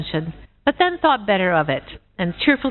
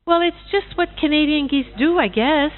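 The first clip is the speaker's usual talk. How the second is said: goose voice; 7 semitones higher than usual. Acted. Goose voice again.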